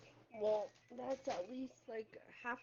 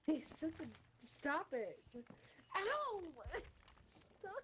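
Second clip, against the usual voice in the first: being tickled; 5 semitones higher, slower than usual. Real, not acted. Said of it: "Stop tickling me".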